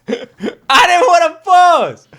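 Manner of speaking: laughing. Real, not acted. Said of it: "but I didn't wanna pause".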